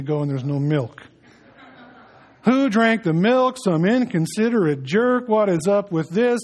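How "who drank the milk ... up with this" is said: mock outrage. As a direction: play a cranky fuss, half joking. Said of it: "you kinda get cranking".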